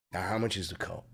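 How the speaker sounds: hushed whispered question. Retold or imitated. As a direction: breathe it low to the clerk. Whispered line in story.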